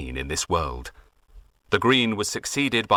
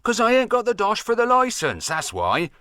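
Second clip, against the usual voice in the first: higher, boyish mock voice; the farmer plays the lad, pitched up; imitating grandson; 12 semitones higher than usual. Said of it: "And he says".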